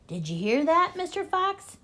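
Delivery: loud taunting yell, rising high on "Fox". A narrator's reading. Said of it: "yelled Bean".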